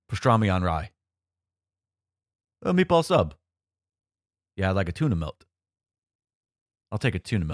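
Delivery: low, flat monotone delivery; lightly voiced deadpan Wong; deep monotone Wong voice. Shown as a demonstration. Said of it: "Let me see if I can attempt a Wong here".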